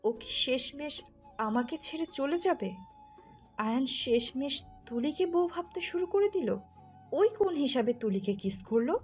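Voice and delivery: high, distressed wailing questions; acted crying, hurt and incredulous; tearful lament. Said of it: "কান্না করতে লাগলো আর বলতে লাগলো".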